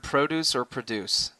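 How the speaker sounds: "produce" first with stress on PRO, then on DUCE; two stresses on produce. Shown as a demonstration. Co-host asking the host which stress is right, contrasting both. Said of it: "the way I'm supposed to pronounce this word".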